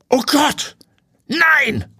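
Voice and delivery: very high shocked outcry; high, aghast exclamation; horrified. Acted. Landowner discovers drained pond.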